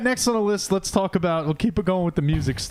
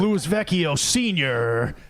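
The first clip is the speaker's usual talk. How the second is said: slow mock introduction of a performer; drawn-out announcer-style name call; stage intro announcer; much slower than usual. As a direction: announce the drummer, stretching out the name. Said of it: "imagine their intro when they come on stage".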